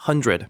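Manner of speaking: "hundred" with a light, natural "dred"; relaxed R. Shown as a demonstration. Teacher easing from drill to speech, relaxed R. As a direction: ease off the R in "hundred". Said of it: "거기서 나아줘요".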